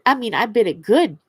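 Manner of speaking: talking through a swollen lip. Real, not acted. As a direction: lips puffy from a bite, speak around it. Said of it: "that's why I'm a little weird sounding right now".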